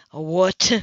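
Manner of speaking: loud stunned question; shocked. Acted. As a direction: blurt it out in disbelief. Cam shocked.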